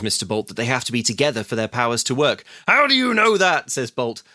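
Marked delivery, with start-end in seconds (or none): 2.7-3.7 higher, louder incredulous demand; hammed-up villain asking how; mock indignant question. Podcast host voicing villain Bolt, mock indignant.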